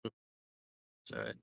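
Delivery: said through a yawn; slow, sleepy yawned words. Real, not acted. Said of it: "I'm pretty tired myself".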